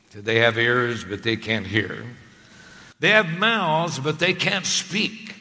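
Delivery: scornful prophet's taunt, rising on the second half; mock the idol worshippers. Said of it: "mocked the people of his day".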